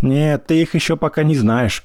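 shouted. A narrator's reading. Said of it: "крикнула тёща".

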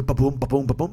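low thudding ba-boom; imitated thumping noise. Man recalling the noise his shoes made, imitated thumping. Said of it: "like a noise".

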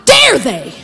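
acted outrage, hitting DARE hard; indignant anger. God angry at attackers of the children, indignant. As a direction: thunder the word dare, then let it fall. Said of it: "God was so mad at them".

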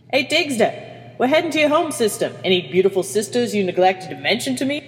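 high, teasing, mock-laughing banter; laughed. Medical officer teases engineer about his sisters, mildly laughing. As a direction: tease a crewmate with mild amusement. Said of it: "laughed Finnegan".

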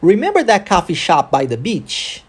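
connected English rhythm, "remember" peaking, "beach" lifted at the end; model rhythm and intonation. Shown as a demonstration. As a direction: question with stress on "remember", rising on "beach". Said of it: "Ok, vamos tentar?".

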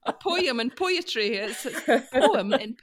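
"poem" and "poetry" said slowly and carefully; mock-proper "poem and poetry", drawn out; careful southern "A poem and poetry"; Queen's English poem. Shown as a demonstration. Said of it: "poetry in Queen's English".

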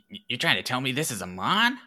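high, stammering amazement in a put-on voice; stunned as it dawns on you; wide-eyed disbelief. Thief realising the Golett is a Mon, high stammering disbelief. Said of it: "just kinda gets wide-eyed and looks at the".

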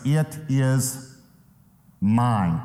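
"It is mine" with a long pause before "mine"; weighty pause splitting "It is" from "mine"; emphatic. Shown as a demonstration. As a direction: hold back "mine", then drop it firmly. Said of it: "It's extremely emphatic".

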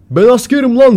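loud, high military bluster; mock shouting. Imitating the shouting man claiming to be a soldier, loud and high. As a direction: bellow it like someone pulling rank. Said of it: "Bağırmaya başladı gene".

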